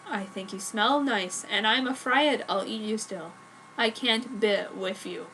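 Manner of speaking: broodingly. Acted. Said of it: "he said broodingly".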